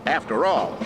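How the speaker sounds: steady narrator voice over music; instructional video narration. Acted. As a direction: read it like a how-to video.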